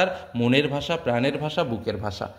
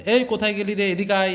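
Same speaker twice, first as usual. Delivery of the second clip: lightly voiced village Bengali call, a touch higher; rural Bengali twang; 4 semitones higher than usual. Shown as a demonstration. Teacher shows students the home village Bengali twang. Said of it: "এরকম একটা টান আছে".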